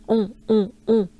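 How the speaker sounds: un played with, nasal and loud; playful nasal un. Shown as a demonstration. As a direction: have fun with the nasal un. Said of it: "Just have fun with it".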